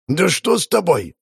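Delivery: shouting back. Acted. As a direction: hurl the question back at her. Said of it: "Людвиг кричал в ответ".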